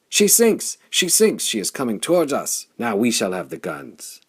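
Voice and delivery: huge, high, loud crowd yell of victory; triumphant roar. Acted. The horde roars as the enemy ship sinks, triumphant shout. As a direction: roar it like a horde smelling blood. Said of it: "The horde roared in triumph".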